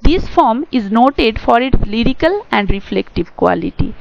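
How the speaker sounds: reads English text very slowly, word by word; slow dictation reading. Shown as a demonstration. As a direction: dictate it slowly for students to copy. Reads English textbook definition aloud. (ধীরে ধীরে ডিক্টেশনের মতো পড়া)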